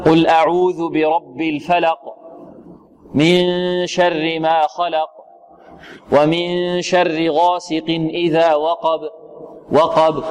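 slow recitation with a faint bounce ending الفلق، خلق، وقب; weak qalqala recitation. Shown as a demonstration. Teacher imitating a student's error, weak qalqala in slow recitation. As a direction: let the final Q and B of الفلق، خلق، وقب barely echo. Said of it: "هذا يعتبر ضعف".

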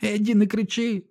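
put-on very high, squealing child's plea; shrieking little boy. A narrator's reading. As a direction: shriek it like a scared little brother. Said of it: "верещить Біллі". (малий Біллі верещить до брата)

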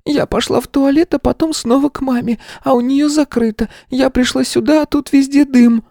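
put-on very high small child's voice; a little girl rattling off her story. A narrator's reading. Girl explains to the teacher about her mother.

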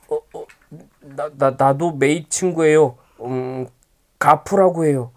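pinched-nose nasal talk. Acted. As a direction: speak through a pinched nose. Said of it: "코맹맹이 소리로 대답했습니다".

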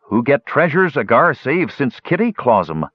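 high, pleading gully dwarf voice; a hint of a whining gully dwarf. Gully dwarf begging the dwarf to stay king, whining.

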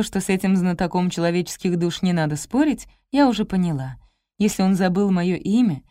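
ordinary delivery, nothing marked

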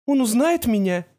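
high worried question; anxious mother. A narrator's reading. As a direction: ask fearfully, high.

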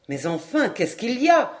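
mild impatient call; shouting. Acted. René shaking the captain, mildly impatient shout. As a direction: press him for an answer. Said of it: "cria René".

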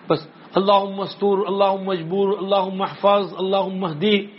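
quick rhythmic Arabic prayer recital; dua recitation. Shown as a demonstration. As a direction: rattle off the supplication fast.

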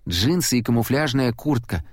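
ordinary delivery, nothing marked

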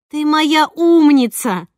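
loud, high, drawn-out delight; proud and exuberant, stretched out; delighted praise. A narrator's reading. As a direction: gush with pride over a child.

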